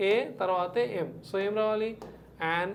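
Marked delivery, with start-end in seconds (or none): 0.1-1.1 "ఏ" first, then "ఎం" as a separate sound. Shown as a demonstration. Teacher showing how MLA begins, sound by sound. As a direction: break the letter into "ఏ" and "ఎం". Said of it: "ఇది ఎలా పలుకుతున్నా".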